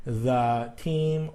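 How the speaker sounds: slow "the team", with "the" said thuh. Shown as a demonstration. Teacher showing the consonant form, "the" as thuh. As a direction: make "the" rhyme with duh before "team". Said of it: "we're not gonna emphasize it".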